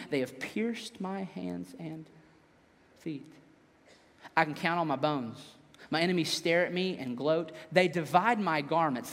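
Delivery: low, quiet, measured psalm reading; solemn scripture reading. A narrator's reading. Pastor reads the psalm to the congregation, solemn and quiet.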